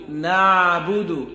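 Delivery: না'বুদু with a checked ayn after না; careful model না'বুদু; correct short "na". Shown as a demonstration. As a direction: say না'বুদু slowly, catching the ayn in the throat. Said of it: "এরকম যেন হয়".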